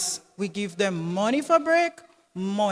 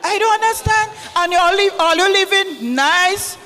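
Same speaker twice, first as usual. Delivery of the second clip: indignant scolding; 6 semitones higher, 4 dB louder than usual. Acted. Mother scolds the children.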